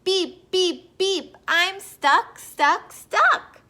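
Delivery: loud, high, punched-out words; crying out. A narrator's reading. Little blue truck calling the animals for help, loud cries. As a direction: call out in short urgent bursts. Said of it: "cried the little blue truck".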